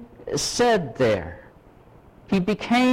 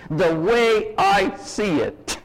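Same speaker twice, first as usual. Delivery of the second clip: 'The way I see it' stretched slowly as a tired catchphrase; slow, drawn-out cliché; much slower than usual. Retold or imitated. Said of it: "the little sentence".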